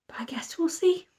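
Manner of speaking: soft whispered aside. Real, not acted. Whispering her hopes to the camera. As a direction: breathe it out, no voice. Quiet early-morning aside.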